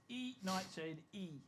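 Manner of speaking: E Nightshade E with each I said as "ee"; alternate pronunciation. Shown as a demonstration. Offering another reading of the winner's name, "E Nightshade E" slowly pronounced. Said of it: "Also pronounced".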